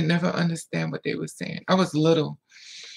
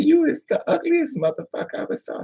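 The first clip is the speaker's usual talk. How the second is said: shrill-pitched imitation of a cruel mother; mother's insult; 11 semitones higher than usual. Voices abusive mother's insult.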